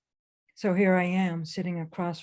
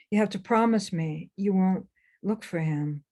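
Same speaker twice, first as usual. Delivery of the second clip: a mildly raised, pleading insistence; getting louder; 2 semitones higher, 4 dB louder than usual. Retold or imitated. Birth mother gripping her daughter's arm, mildly louder plea. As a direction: press the promise on her, a touch louder. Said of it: "her voice getting louder".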